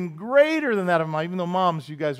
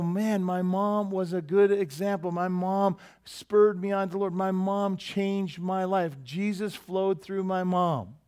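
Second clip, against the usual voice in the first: slow, earnest praise of mom; a son speaking fondly, slowed right down; imagined grateful son; 4 semitones higher, slower than usual. Retold or imitated. Grown son praising his mom, slow and earnest. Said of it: "You want your kid to go".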